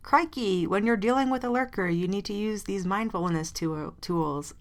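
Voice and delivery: put-on a lightly done Aussie crocodile-hunter Australian accent; Steve Irwin Australian accent. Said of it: "I can't do an Australian accent".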